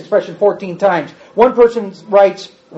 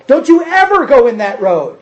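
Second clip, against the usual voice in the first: strong parent warning; 3 semitones higher, 3 dB louder than usual. Retold or imitated.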